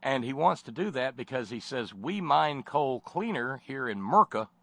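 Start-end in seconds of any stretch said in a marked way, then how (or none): 1.9-4.5 mock patriotic blowhard. Mocking a patriotic coal speaker.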